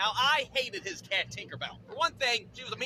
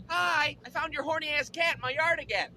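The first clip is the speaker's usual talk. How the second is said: lightly voiced neighbor, higher pitch; neighbor lady; 5 semitones higher than usual. Neighbor returning the cat, lightly put-on voice. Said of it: "the neighbor lady would have to bring her back over".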